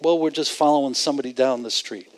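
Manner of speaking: quick, low and offhand; casual shrug. Acted. Preacher mimics men just following somebody, offhand. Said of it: "That just sounds like".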